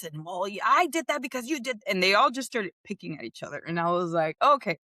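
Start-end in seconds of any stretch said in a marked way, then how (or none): 0.2-1.8 put-on whiny kid. Kids nitpicking at dinner table. 4.4-4.8 higher, louder call to stop; firm call. Retold or imitated. Mother stops kids' bickering.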